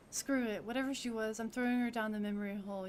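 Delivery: loud, fast, bitter rant; angry outburst. Acted. Wu snapping at Sinlia about losing his partner, angry. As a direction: spit it out and throw it away.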